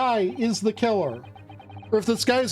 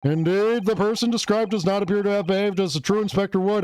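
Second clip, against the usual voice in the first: brisk, lightly voiced judge ruling from the bench; faster than usual. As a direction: rattle it off fast like a judge dismissing a witness.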